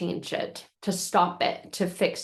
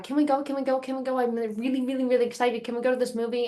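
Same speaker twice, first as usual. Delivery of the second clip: put-on higher, eager kid's voice pleading; excited child begging; 4 semitones higher, faster than usual. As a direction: beg like a kid who can't wait. Child begging parents for movie.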